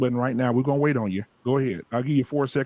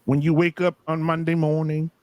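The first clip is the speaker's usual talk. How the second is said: preacher voice. Acted. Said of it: "Go back to my preacher voice".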